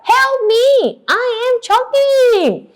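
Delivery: acted desperate plea; audible cry. Shown as a demonstration. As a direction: call it out so everyone hears. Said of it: "I can't hear you. One more time".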